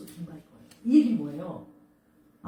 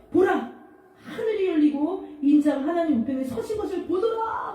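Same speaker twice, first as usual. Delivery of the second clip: proclaiming vision; 7 semitones higher than usual. Acted. Stephen proclaims his heavenly vision.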